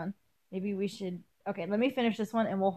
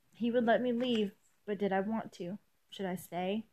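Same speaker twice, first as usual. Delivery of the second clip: measured first-person story reading; story narration; 6 dB quieter than usual. A narrator's reading. Reader telling an elf's choice to leave, story narration. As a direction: read the passage aloud evenly, sentences falling gently. Reads fan fiction aloud.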